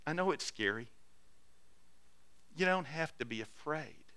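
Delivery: soft, gentle comfort; patient tenderness. Acted. Preacher voicing Jesus to a frightened believer, patient tenderness. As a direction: comfort them softly, with a smile. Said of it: "with a smile and patience and tenderness".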